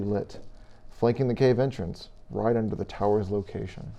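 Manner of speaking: measured storyteller scene-setting; game master narration. Acted. Game master describes the tower to players, measured narration.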